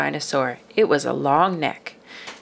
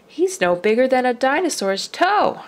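marveling; 6 semitones higher than usual. Acted. Father marvels at tiny baby.

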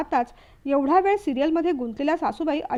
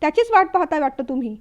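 angry jibe; 4 dB louder than usual. Acted. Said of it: "Madhavi खूप चिडली".

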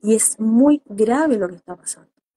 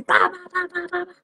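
mock chatter; 7 semitones higher, faster than usual. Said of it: "y yo escucho así".

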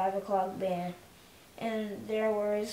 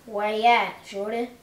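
calling out; 8 dB louder than usual. Acted. Big Chief calls to Shorty.

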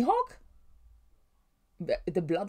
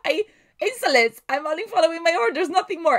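haughty Hancock; 9 semitones higher, 6 dB louder than usual. Acted. Voicing Hancock's haughty reply.

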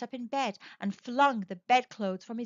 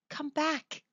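tender call; 4 semitones higher than usual. A narrator's reading. Old man coaxing his wife back to bed, tenderly. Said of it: "he said tenderly".

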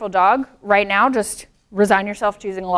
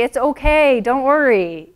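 calm reassurance; 4 semitones higher, slower than usual. Shown as a demonstration. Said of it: "they need you to say".

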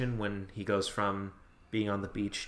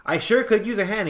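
cartoon voice; 10 semitones higher, 7 dB louder than usual. Cartoon character quote, raised pitch.

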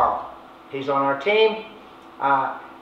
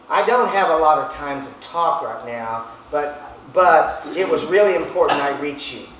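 stiff scripted line; 3 semitones lower than usual. Shown as a demonstration. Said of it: "I don't talk like that".

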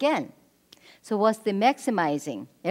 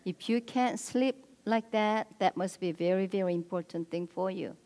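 validating, understanding. Retold or imitated. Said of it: "When he said".

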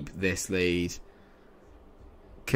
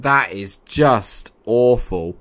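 slow, loud, every word punched; heavy, drawn-out exasperation; emphatic disgust; 8 dB louder, much slower than usual. Real, not acted. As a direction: spell out your disgust word by word. Criticising bad play.

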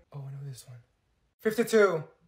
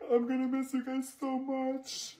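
higher, slow, near tears; teary; 6 semitones higher, slower than usual. Acted. Student tearfully saying goodbye to classmates, sad. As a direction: choke it out, sentimental. Teary last day of school.

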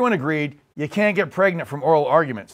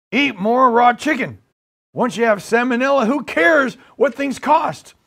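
rough presidential impression, raised and emphatic; Joe Biden; 4 semitones higher than usual. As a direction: declare it like a clueless president. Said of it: "playing the part of Joe Biden".

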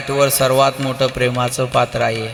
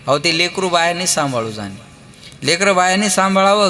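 ordinary talk, nothing marked

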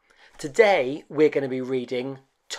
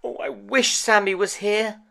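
higher, wistful little toy voice; lonely toy rabbit; 9 semitones higher than usual. Acted. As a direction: sigh it out wishing a friend back. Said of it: "thought Tom Rabbit".

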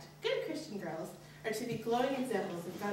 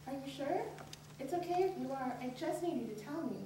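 gentle, softer, reassuring mom; softened voice; 5 semitones higher, 3 dB quieter than usual. Retold or imitated. Mom gently reassuring her uncomfortable daughter. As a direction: coax her softly. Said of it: "softening her voice".

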